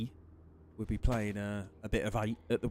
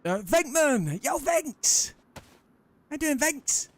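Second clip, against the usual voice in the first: high, loud falsetto shout-out; cartoonish falsetto hello to a viewer; squeaky greeting; 9 dB louder, slower than usual. Streamer greeting chat member.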